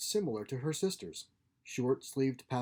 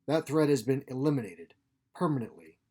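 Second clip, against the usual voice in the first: crisp, intimidating; 5 dB louder than usual. Acted. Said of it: "She spoke in a crisp, intimidating tone".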